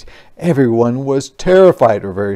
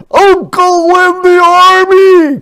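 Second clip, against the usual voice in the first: very high, loud yell; drawn-out full-voice shout; crying out; 10 dB louder than usual. A narrator's reading. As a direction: bellow it like an outraged general. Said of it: "cried the general".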